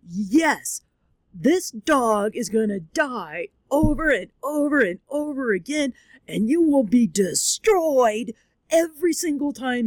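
emphatic warning, punching OVER and DESTROYED; flat-out declaration. Retold or imitated. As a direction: spell it out firmly, leaning on "over and over". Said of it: "flat out".

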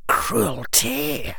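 high, scornful echo of the word; bitter scoff. A narrator's reading. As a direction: sneer it back with contempt. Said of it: "the bitter smile still on his face".

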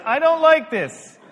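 high, drawn-out protest; loud retold objection. Pastor retelling his objection to the group, loud high protest. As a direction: complain it loudly and slowly.

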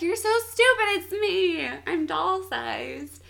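high, loud exasperated retelling, easing off; annoyed. Retold or imitated. Tiny woman telling him who she is, mock annoyed. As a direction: imitate her fed-up outburst, drawing out the last words. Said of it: "she gets so annoyed".

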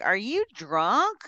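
slow, incredulous question; retold exasperation. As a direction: drag it out in mock disbelief.

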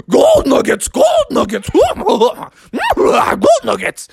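high shouted creature chant; Sasquatch shouting. Acted. Sasquatch racing out of the forest, shouting. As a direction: holler it like a Sasquatch on the run. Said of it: "Sasquatch was running ... going".

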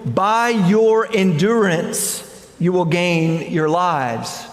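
by your endurance, slow and weighty; slow emphasis. Shown as a demonstration. Preacher pointing the congregation to the verse, slow and weighty. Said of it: "And notice he says".

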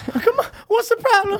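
very high, loud sassy voice; sassy dispatcher voice. Acted. Playing the dispatcher lady.

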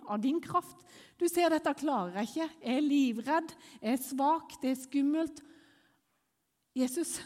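urgent, pleading thanks to Jesus; mildly acted desperate praying; re-enacted frightened prayer. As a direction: cry out to Jesus, scared but trusting. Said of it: "jeg begynte å rope på Jesus".

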